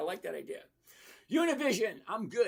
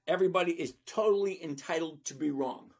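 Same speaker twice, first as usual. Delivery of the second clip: laughing tease. Real, not acted. Teasing a viewer.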